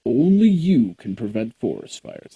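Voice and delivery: mock public service announcement; lightly voiced ad announcer; mock PSA voice. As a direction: deliver it like an old ad slogan. Smokey Bear PSA quote.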